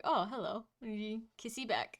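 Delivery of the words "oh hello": sleepy grumbly dad voice. Acted. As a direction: grumble like a just-woken dad. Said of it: "grumbly dad voice who just woke up".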